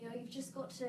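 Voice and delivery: wobbly Irish accent that turns English; attempted Irish accent slipping British. Shown as a demonstration. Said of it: "I'm British again".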